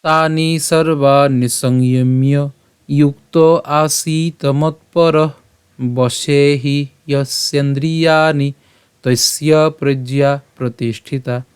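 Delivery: slow, measured shloka recitation; Sanskrit verse recitation. Shown as a demonstration. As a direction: draw out the long vowels, pausing between phrases. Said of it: "আমি আবার বলছি".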